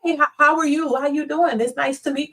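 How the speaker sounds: mock sweet, overly polite greeting; polite nice guy. Mocking the polite guy who greets women too nicely. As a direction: put on a timid nice-guy hello. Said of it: "Don't talk to 'em like".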